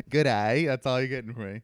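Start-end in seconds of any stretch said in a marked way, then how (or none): 0.1-0.7 token Australian greeting; a quick, light Australian accent. Shown as a demonstration. Man grudgingly taking his turn, brief Australian accent. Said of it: "I'm good at accents".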